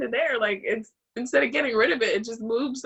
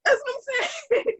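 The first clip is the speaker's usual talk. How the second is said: high, tearful outburst; real crying; 12 semitones higher than usual. Real, not acted. Caller agreeing with her coach, crying. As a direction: agree through tears, voice pitched way up. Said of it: "There's a big cry".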